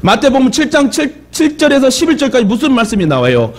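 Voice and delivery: ordinary delivery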